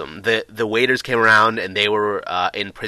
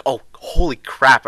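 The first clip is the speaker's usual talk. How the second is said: loud, slow shocked exclamation; startled; 4 semitones higher, 7 dB louder, slower than usual. Retold or imitated. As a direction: blurt it out, startled in the dark. Lights suddenly go out.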